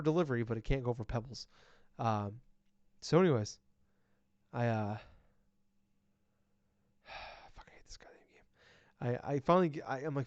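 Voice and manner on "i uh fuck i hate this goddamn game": slow, breathy whispered disgust; whispered grumble. Real, not acted. Gamer whispering to co-host about the hated game. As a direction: mutter your hatred under your breath.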